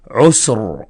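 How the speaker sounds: "عسر" ending on a heavy, vowelless R; tafkhim ra. Shown as a demonstration. Teacher giving an example of stopped ra, heavy demonstration. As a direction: rest on a thick final R in "عسر". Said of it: "الحالة مفخمة".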